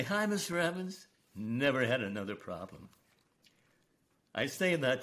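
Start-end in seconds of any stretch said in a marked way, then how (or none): 0.0-1.1 high, cheery child's hello, lightly imitated; retold smiling greeting. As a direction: greet him with a smile, pitched well up. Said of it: "he had a smile on his face".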